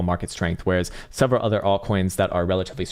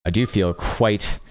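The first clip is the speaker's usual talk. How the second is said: sincere; slower than usual. Real, not acted. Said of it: "In a more sincere tone".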